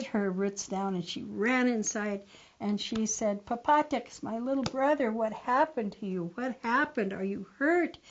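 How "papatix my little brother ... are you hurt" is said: worried sister. Acted. Sister finds brother hurt.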